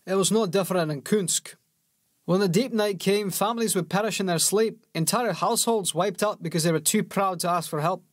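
a blunt soldier recalling a harsh land; Bellis, soldier voice. A narrator's reading. Bellis to Yarrow on the cold ride, grim soldier voice.

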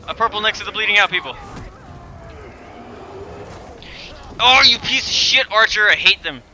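loud, high frustrated yelling; angry outburst. Real, not acted. Gamer raging at an archer ambush, loud and angry. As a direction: blow up at the screen. Enemy ambush during game.

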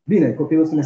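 ordinary talk

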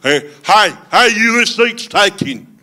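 high-pitched mock Southern kid; Mississippi Alabama accent. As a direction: refuse a seat in a put-on Alabama accent. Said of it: "That was my Mississippi, Alabama accent".

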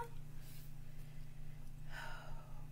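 long, soft breathy sigh; weary sigh. Pretend. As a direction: let out a long exhale. Narrator sighs after the noise.

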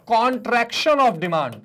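very slow, each word laid out; slow, spelled-out term. Shown as a demonstration. Teacher drilling the term for students, very slow and deliberate. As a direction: say it slowly so the class can repeat. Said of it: "क्या कहते हैं sir?".

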